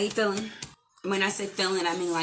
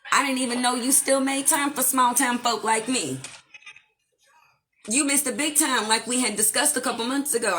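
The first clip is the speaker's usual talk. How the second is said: sassy diva voice; 6 semitones higher, 4 dB louder than usual. Acted. Channeling a sassy persona.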